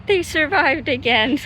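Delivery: high, loud relieved phew; little kid cheering the stunt riders. Retold or imitated. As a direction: sigh with relief like a thrilled child. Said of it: "And I'm like".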